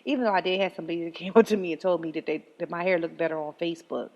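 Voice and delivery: ordinary delivery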